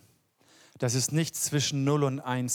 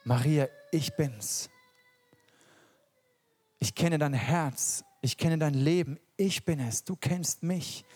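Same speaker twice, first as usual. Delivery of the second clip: tender reassurance. Retold or imitated. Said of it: "Und damit sagt er".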